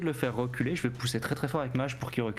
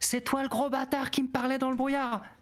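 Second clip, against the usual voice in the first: very high shouted war cry; 12 semitones higher than usual. Voicing a character attacking a foe, shouting. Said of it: "en criant".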